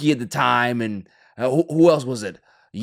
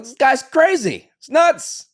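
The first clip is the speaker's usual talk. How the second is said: mock scoffing onlookers; 13 semitones higher, 5 dB louder, slower than usual. Everyone mocking Stearns' plan.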